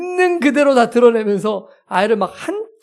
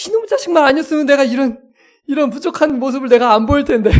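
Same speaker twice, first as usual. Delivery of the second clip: raised, comically indignant grumble; retold anger; 3 semitones higher than usual. Embarrassed father blaming child, mock anger. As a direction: re-enact a father fuming at his child. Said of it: "우리 아이한테 화가 나는 거예요".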